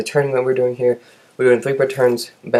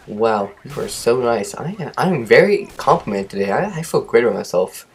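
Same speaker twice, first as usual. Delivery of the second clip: sarcasm. Retold or imitated. Student silently answering a harsh instructor, sarcastic. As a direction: praise him while meaning the opposite. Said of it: "that was sarcasm if you didn't notice".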